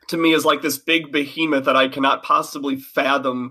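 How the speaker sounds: choppy connection dropping out; glitching audio. Real, not acted. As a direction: voice cutting in and out over a call. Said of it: "your audio's cutting out a little bit".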